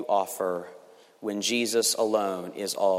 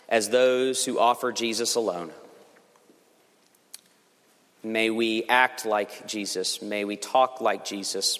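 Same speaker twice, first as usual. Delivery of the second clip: closing prayer. Real, not acted. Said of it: "Let me pray".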